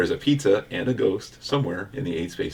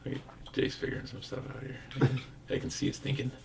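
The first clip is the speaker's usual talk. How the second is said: hushed aside about the player; soft whispered commentary; whispering; 4 semitones higher, 11 dB quieter than usual. Real, not acted. Commenting quietly while player thinks.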